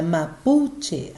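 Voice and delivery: "mapuche" slowed, with PU brought out; stress on middle syllable. Shown as a demonstration. Teacher demonstrates the strong syllable, slow "mapuche" stressed on PU. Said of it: "a sílaba forte é".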